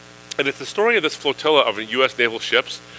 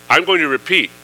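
upset captain; 2 semitones higher than usual. Retold or imitated. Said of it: "the captain is really upset".

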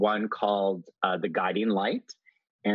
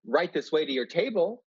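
snooty waiter; 4 semitones higher than usual. Retold or imitated. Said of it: "That'd be my role".

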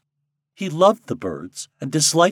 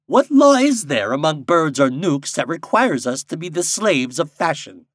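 raised, louder, weighty pronouncement; solemn blackbird; 7 semitones higher, 7 dB louder than usual. A narrator's reading. Blackbird challenging Popopo on fashion, solemnly. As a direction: declaim it, drawing out key words. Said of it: "said a blackbird solemnly".

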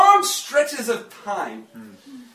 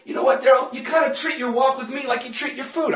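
Holy Spirit speaking; 6 semitones higher than usual. Retold or imitated. Preacher voicing the Holy Spirit to the congregation, raised and emphatic. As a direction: play the Spirit calling him out, half joking. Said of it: "He said".

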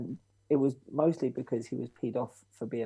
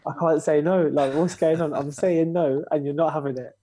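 louder, higher, fed up; exasperated protest; 4 semitones higher, 6 dB louder than usual. Retold or imitated. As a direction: vent the frustration loudly. Pressured into dates.

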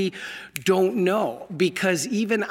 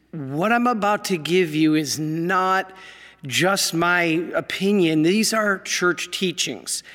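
ordinary talk, nothing marked

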